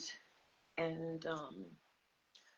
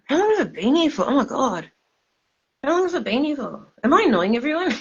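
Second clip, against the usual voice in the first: high, tipsy slurring; 6 semitones higher than usual. Real, not acted. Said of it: "Sorry, I'm drunk".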